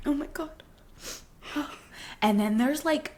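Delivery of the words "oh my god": small gasping, higher-pitched whimper; hushed, overwhelmed gasps; imitated crying gasps. Shown as a demonstration. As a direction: act out catching breath while crying hard. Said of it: "crying that hard in a movie. Like, there's like".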